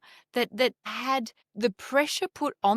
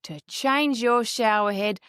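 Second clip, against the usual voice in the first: mocking the salesman; 5 dB louder than usual. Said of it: "there it is".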